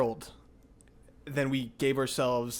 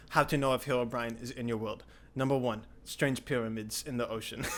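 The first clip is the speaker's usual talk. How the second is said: imitating a friend's blog with a curious cadence; odd reading cadence. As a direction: read it out like someone's nerdy list. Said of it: "What an interesting little cadence to give him".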